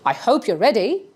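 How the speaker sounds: "ready" lifted at the end; questioning rise on "ready"; upward question tone. Shown as a demonstration. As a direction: check with listeners, "ready" rising like a question. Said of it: "This is a question, that's why upward tone".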